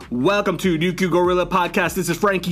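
podcast intro. Acted. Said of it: "podcast opening intro".

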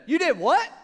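shouted in disbelief; a loud, high, shocked cry; shocked wife. Retold or imitated. Wife shouting her shock at the news. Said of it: "She said".

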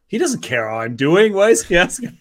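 hammed-up puzzled objection, building in volume; mock German indignation. German puzzled by a bus driver's greeting, mock indignation. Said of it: "And Germans are like".

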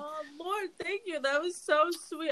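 moved thanks, voice catching; emotional, touched. Real, not acted. Cohost thanks her partner for the birthday tribute, really emotional. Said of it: "I'm actually really emotional".

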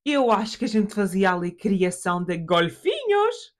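slow, hammed-up German dad's Portuguese; father's foreign accent. Father pitches dolphin farm to daughter, father's foreign accent. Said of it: "porque ele fala assim".

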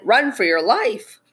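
lightly voiced rabbit's warning; shouting rabbit. Rabbit telling others to flee, mild shout. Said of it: "shouted a rabbit".

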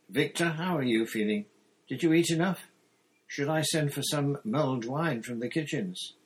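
fussing over him like a father; warmly paternal. A narrator's reading. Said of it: "his warmly paternal air".

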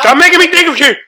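loud, high pleading yell; disgusted yell. Real, not acted. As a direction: yell to make him stop. Friend describes bug legs.

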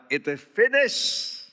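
quoting Jesus. Retold or imitated. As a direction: lift it up as the dying words. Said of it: "Dia sudah berkata".

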